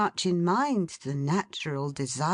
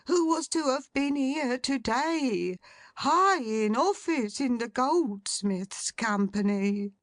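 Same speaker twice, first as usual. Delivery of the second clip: agitated secretary; 7 semitones higher than usual. A narrator's reading. Secretary reporting shocking news.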